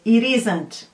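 "It isn't" linked for repeating; "It isn't" said for learners to repeat; linked pronunciation demo. Shown as a demonstration. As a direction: model "It isn't" as one joined word.

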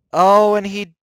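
high, loud startled cry; sudden alarmed outburst; startled yelp. Real, not acted. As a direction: caught off guard as he vanishes. Enemy teleports on him suddenly.

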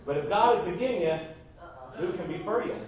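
southern accent. Shown as a demonstration. Preacher jokes with the congregation about God being for you, southern accent. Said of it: "that's in the southern accent".

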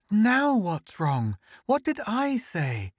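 high-pitched, baffled wife; bewildered demand. A narrator's reading. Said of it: "demanded Althea, bewildered".

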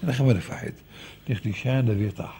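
low, soft reassurance; calming. Retold or imitated. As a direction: settle someone down for sleep. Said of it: "עכשיו אתה תהיה רגוע".

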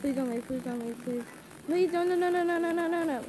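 rapid repeated pleading; frantic begging. Real, not acted. Player begging customers not to walk out, frantic pleading. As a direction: beg them urgently in one breathless string.

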